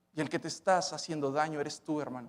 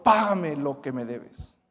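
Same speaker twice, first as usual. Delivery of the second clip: demanding; slower than usual. Acted. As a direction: lean on each word like a creditor choking him. Servant chokes debtor demanding payment.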